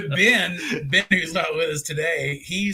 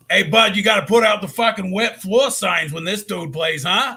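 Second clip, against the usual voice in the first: Rocco voice; 4 semitones higher, 6 dB louder than usual. Retold or imitated. Still doing the Rocco voice.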